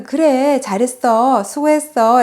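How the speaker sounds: retold praise. Retold motherly praise to daughter.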